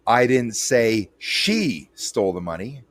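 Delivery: "she" lifted and leaned on; single out "she"; stress on SHE. Shown as a demonstration. Showing how one stressed word changes the sentence, "she" leaned on. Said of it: "whichever word I accentuate".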